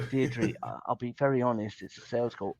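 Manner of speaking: quiet and low, gently confiding; soft, level honesty on a cold call; soft honest delivery. Retold or imitated. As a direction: ease the news in softly. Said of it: "and you go".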